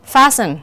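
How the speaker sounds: "fasten" said with no t sound; silent t. Shown as a demonstration. Teacher showing the silent letter in a test word, silent t. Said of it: "không có phát âm".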